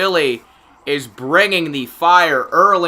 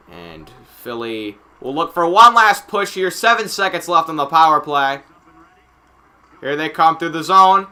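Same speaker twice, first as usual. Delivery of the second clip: steady live hockey commentary; play-by-play. Real, not acted. Announcer tracking the puck for viewers, play-by-play. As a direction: follow the puck as it moves.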